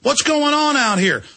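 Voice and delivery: high, sugary mock-polite greeting. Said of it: "and I politely say".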